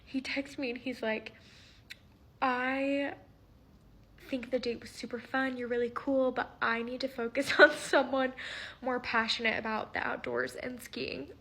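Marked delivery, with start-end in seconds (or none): 2.4-11.3 reading it out while fighting laughter; barely straight face. Real, not acted. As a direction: try to keep it serious, let a laugh slip. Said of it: "I can't say this with a straight face".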